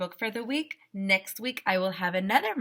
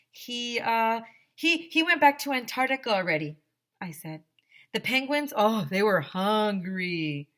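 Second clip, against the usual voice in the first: put-on nervous kid. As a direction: make up the lie on the spot, fumbling. AJ finishes the lie.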